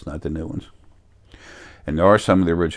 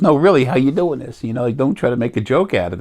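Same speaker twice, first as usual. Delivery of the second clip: mildly annoyed; 6 semitones higher, 4 dB louder than usual. Retold or imitated. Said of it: "he was getting a little annoyed".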